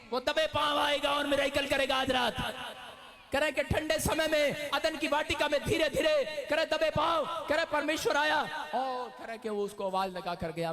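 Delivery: high, loud preaching cry; shouted preaching. Acted. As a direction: thunder it to the church. Preaching at full force.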